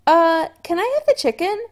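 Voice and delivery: high, loud hasty interruption; urgent. A narrator's reading. Chris cutting Adam off, urgent and flustered. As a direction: cut him off fast to change subject. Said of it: "Chris said urgently".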